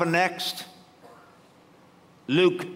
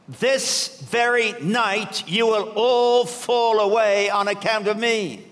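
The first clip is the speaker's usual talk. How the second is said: solemn warning; 4 semitones higher than usual. Acted. Jesus' solemn warning quoted.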